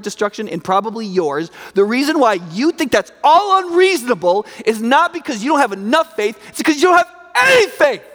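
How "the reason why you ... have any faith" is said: preacher hammering home the accusation; forceful rebuke. Acted. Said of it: "He probably didn't say it in that tone of voice".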